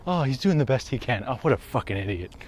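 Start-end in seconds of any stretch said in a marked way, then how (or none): none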